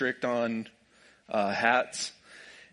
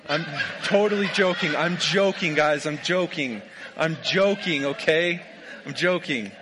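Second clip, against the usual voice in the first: laughing through it, a bit higher and louder; 4 semitones higher, 4 dB louder than usual. Real, not acted. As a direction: giggle while insisting it's only a joke. Insisting to fans it's a joke.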